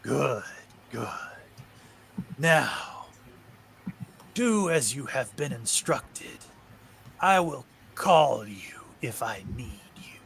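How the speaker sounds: slow, ominous creature voice; a looming presence revealing itself; otherworldly thing. Acted. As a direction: let the monster speak each word slowly. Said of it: "the voice goes".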